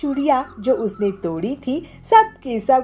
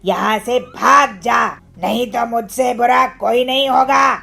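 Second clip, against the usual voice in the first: put-on loud menacing shout at the girl; threatening bully; 5 dB louder than usual. Kalu threatens Pilu to leave, loud menace. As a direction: drive her off, bark at her.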